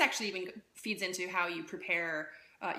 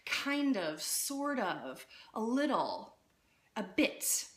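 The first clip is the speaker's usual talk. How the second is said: drawn-out hedging words, each set apart; wishy-washy softening; much slower than usual. Shown as a demonstration. Coach showing how women soften things, wishy-washy. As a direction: soften each phrase with a falling tune. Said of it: "tend to soften things somehow".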